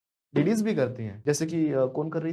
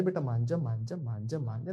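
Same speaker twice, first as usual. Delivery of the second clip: lightly acted soft pleading, trailing lower; coaxing father; 5 semitones lower, 4 dB quieter than usual. Father trying to talk crying child round, coaxing. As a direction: quietly repeat it, dropping in pitch and volume. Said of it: "समझा रहे".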